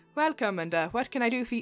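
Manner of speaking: attempted Scottish accent that comes out Irish. Voicing a woman's cheery greeting, an attempted Scottish accent that stays Irish. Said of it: "That's still Irish".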